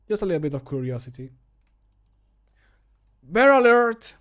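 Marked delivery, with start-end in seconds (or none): 3.2-4.1 high, loud shout of warning; voice-line yell. Shown as a demonstration. Voice actor shouting a warning line. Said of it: "when I have to kind of scream".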